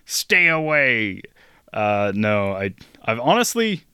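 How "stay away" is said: mock warning. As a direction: drag out a hammed-up warning to stay back. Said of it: "I'd be like".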